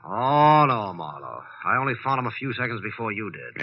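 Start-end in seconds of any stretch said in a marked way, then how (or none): 0.1-1.4 startled protest. Acted. Finds Marlowe suspects him.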